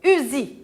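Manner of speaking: "Usi" as u-zi, voiced z. Shown as a demonstration. Teacher confirms the rule for children, "Usi" with voiced z. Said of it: "elle me donne le son Z".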